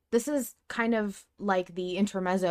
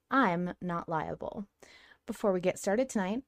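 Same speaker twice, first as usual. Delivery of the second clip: podcast intro read. Acted. Host opening the podcast episode for listeners, formal intro read.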